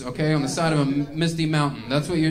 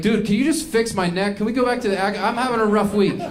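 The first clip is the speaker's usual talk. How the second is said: exasperated; 4 semitones higher than usual. Retold or imitated. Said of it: "I'm like".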